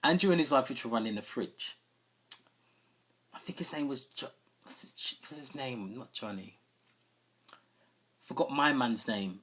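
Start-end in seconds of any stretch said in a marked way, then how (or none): 3.3-6.6 whispering to himself. Real, not acted. Trying to recall a name.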